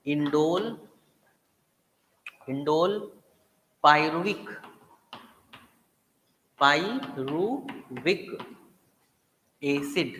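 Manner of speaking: drawn out slowly, syllable by syllable; teacher stretching the word for students to repeat, slowly; slow drill. Shown as a demonstration. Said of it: "याद कर लो मेरे साथ".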